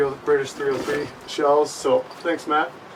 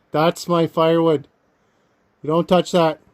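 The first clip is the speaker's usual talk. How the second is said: shouting at a bear; 3 semitones higher, 5 dB louder than usual. Real, not acted.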